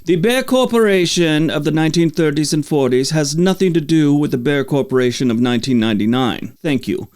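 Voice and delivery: a self-mocking, hammed-up heavy German accent, stiff and formal. Lone spokesman at a press conference, mock heavy German accent. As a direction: imitate a German corporate spokesman in a thick German accent. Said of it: "but with a heavy German accent says".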